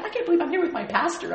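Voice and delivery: high, fast mock dismay; mock horrified girlfriend. Girlfriend at the musical, high embarrassed mock wail. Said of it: "And she's like".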